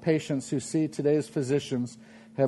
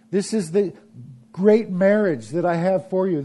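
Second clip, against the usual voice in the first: voicing God's promise; 4 semitones higher than usual.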